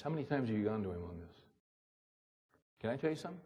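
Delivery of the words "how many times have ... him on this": fast, hushed needling taunt; a lightly voiced accuser's jab; accusing inner voice. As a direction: rattle off the guilt trip as the enemy. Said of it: "That's not the voice of the Holy Spirit".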